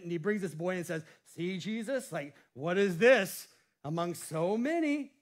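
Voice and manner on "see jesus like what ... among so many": a hint of defending Philip, dismissive; negative, doubting. Shown as a demonstration. Andrew doubting the lunch to Jesus, mildly dismissive. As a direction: play it as if it can't be done. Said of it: "And so it's a negative statement".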